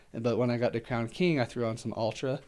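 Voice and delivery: winded, breathing between words. Real, not acted. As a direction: talk while catching your breath. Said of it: "I'm getting out of breath again".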